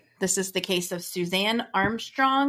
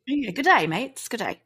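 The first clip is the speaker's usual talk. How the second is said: mock Australian accent; 3 semitones higher than usual. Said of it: "we all know I love an accent".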